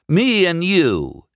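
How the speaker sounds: high, loud, drawn-out incredulity; unbelieving. A narrator's reading. McQueen repeats Doc's race challenge, unbelieving. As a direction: echo it slowly in scoffing disbelief. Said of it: "he said, unbelieving".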